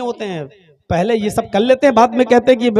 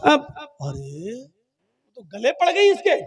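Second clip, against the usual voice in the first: mock crying; 5 semitones higher than usual. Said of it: "अब वो रो के कहती".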